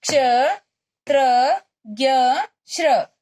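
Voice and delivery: क्ष, त्र, ज्ञ, श्र each said clearly with a pause after it; teacher modelling क्ष, त्र, ज्ञ, श्र for repetition; reciting clusters. Shown as a demonstration. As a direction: lead the class through the four clusters. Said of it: "बोलिए".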